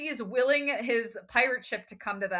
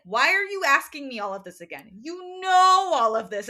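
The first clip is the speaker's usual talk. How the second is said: confused Luke; 3 semitones higher, 7 dB louder than usual. Retold or imitated. Luke asked to repeat his plan, exasperated and confused. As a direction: demand it in mock bafflement. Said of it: "Luke is just so confused".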